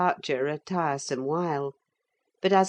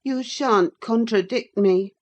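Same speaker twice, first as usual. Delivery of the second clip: put-on higher, louder girl's retort; indignant young lady; 6 semitones higher, 6 dB louder than usual. Cathy refuses to be contradicted by Linton, indignant and higher. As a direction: forbid it in a raised, higher voice.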